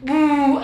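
failed noisemaker "uh"; an awkward try at a party hoot; ugly imitated hoot. Shown as a demonstration. Doctor fumbles imitating a celebration noise, awkward hoot. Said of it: "qué feo se escuchó eso".

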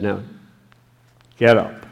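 a loud, firm order; booming command to rise; stern command. Shown as a demonstration. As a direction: bark it like an order from above. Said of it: "I don't know what the inflection was when he said".

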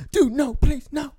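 loud, high mock begging; panicked pleading. Tough guy smacked in the face begs, loud high mock panic. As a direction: yelp it out, begging for mercy in imitation.

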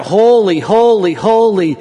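high, loud cry of worship; ringing, exalted shout. Acted. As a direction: proclaim it like a chorus of seraphim. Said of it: "they're crying out".

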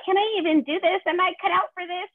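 squeaky, worried inner voice; panicky self-doubt. Retold or imitated. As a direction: act out an anxious student doubting themselves. Voicing a grad student's self-doubt.

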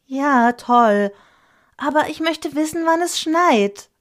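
put-on high, loud child voice, impatient; a kid whining to know when it will snow; impatient child pushing for an answer. A narrator's reading. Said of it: "erwiderte ich ungeduldig".

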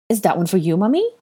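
lightly voiced curious little boy; child's question, lifting high on Mummy; a hint of an eager child; small boy. A narrator's reading. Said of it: "the small boy whose hand".

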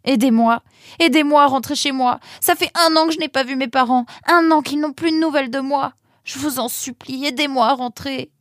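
high-pitched, urgent begging near tears; tearful plea. A narrator's reading. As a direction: beg for help, tears welling up. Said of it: "Les larmes commençaient à lui monter aux yeux".

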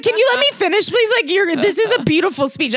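high, pleading "let me finish"; mock exasperated plea. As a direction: sound fed up, begging to finish. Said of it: "I was like".

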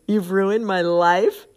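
slow, loud questioning repeat; incredulous rising question; puzzled echo. Retold or imitated. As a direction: quote it back in baffled disbelief. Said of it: "I don't even see the connection".

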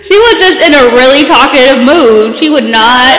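talking through laughter; giggling while teasing; laughing. Real, not acted.

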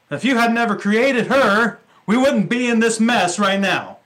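loud, whiny blame-shifting protest; Adam pleading his case, loud and defensive. Retold or imitated. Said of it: "Adam's saying".

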